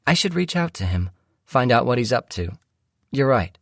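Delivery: high-pitched voice for the wife; musing wife. Acted. Wife deciding to contact her uncle, musing. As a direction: play the wife deciding aloud, pitched well up. Wife's voice in story narration.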